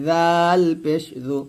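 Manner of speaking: thin light জু; light dhal. Shown as a demonstration. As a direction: keep জাল thin as in জু. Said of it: "জাল পাতলা করে".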